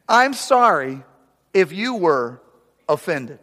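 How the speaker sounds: drawn-out fake apology, pitch rising. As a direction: say it slowly, sickly sweet and insincere. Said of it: "this is a classic".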